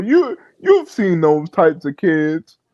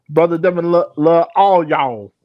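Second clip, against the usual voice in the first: fake country accent. Shown as a demonstration. Host greets brother Devin in a fake country accent. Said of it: "in my fake country accent voice".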